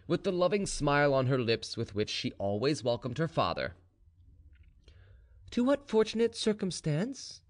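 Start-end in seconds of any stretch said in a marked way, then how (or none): 5.5-7.4 high, sweetly polite daughter; high-pitched, tender courtesy; softest tones. A narrator's reading. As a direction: greet your father gently in a high voice. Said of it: "in her softest tones".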